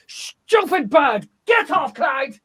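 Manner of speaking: exasperated shout at the bird; mock shout at bird. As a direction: yell at the bird to get off.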